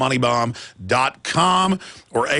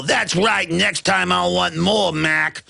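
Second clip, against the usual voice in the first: slow gangster drawl, lightly hammed; smug mob enforcer collecting; mock mafia thug; 3 semitones higher, much slower than usual. Federal mafia demanding more from pension fund, mock menace.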